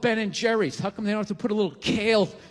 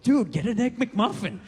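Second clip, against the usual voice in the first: tempting inner voice; 3 semitones higher than usual. Retold or imitated. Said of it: "this other voice going".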